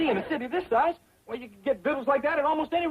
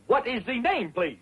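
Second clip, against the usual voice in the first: put-on French accent. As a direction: fake French maître d'. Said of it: "How do you like my accent?".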